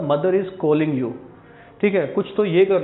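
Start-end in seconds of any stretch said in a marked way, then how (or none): 0.1-1.1 slow model sentence. Shown as a demonstration. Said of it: "इसका English सिर्फ यही होगा".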